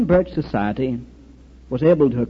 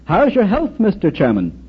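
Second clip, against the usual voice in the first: retold shout; 4 semitones higher than usual. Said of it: "Someone shouted in Russian".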